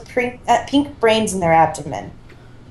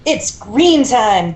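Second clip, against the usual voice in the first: battle cry; 2 semitones higher, much slower than usual. Acted. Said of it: "the four turtles shouted together".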